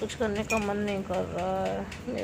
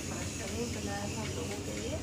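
sleepy; 6 dB quieter than usual. Real, not acted. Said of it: "मुझे आई है बहुत जोरों की नींद".

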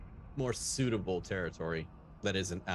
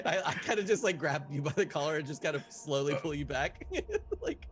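laughing; 5 semitones higher than usual. Real, not acted. Laughing while describing action.

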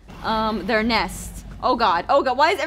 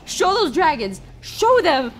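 rousing pep talk; 4 semitones higher than usual. Pretend. Mock pep talk to teammate.

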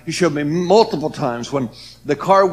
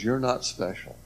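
recalling God's words in a hushed voice; quiet remembered verdict; 7 dB quieter than usual. Retold or imitated. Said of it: "where God says".

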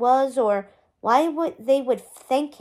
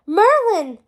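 high, loud joyful call; crying out; 6 semitones higher, 6 dB louder than usual. A narrator's reading. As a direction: cry out the name, bursting with joy. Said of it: "Arthur cried again".

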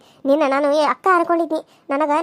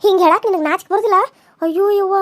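indignant outburst; 4 dB louder than usual. Acted. Wife confronts husband's threat.

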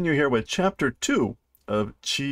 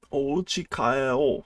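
slow kitten voice; slower than usual. Shown as a demonstration. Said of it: "Let's go home".

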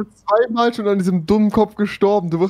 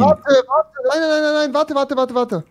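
urgent wait; 8 semitones higher, slower than usual. Real, not acted. Urgent stop to friend.

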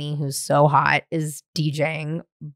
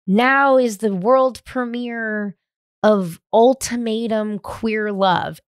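slow, drawn-out big reveal; mock announcer; 4 semitones higher, slower than usual. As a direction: announce it like an MC unveiling a show. Quoting the premiere announcement.

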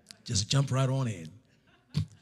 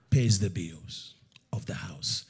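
slow, hushed whisper after the shout; dramatic whisper; 6 semitones lower, 6 dB quieter, slower than usual. Retold or imitated. Preacher whispering God's word to the congregation. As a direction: drop to a secret whisper. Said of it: "He says".

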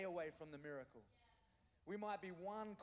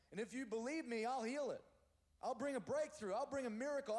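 louder, rising declaration of God's promise; God's voice promising breakthrough, loud and sure; preaching God's promise; 4 semitones higher, 4 dB louder than usual. Acted. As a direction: proclaim it as God speaking, full force.

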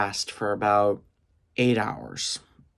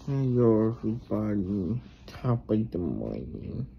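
woozy post-surgery speech; high on pain meds; 5 dB quieter than usual. Real, not acted. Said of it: "I think I'm still high".

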